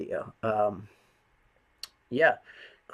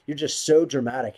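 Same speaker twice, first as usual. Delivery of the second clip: mocking roommate; 3 semitones higher, 6 dB louder than usual. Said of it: "crazy bitch was like".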